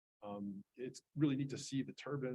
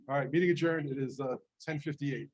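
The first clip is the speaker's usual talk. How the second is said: loud call over a ringing alarm; shouting over fire alarm; 4 semitones higher, 11 dB louder than usual. Real, not acted. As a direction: project over the alarm noise.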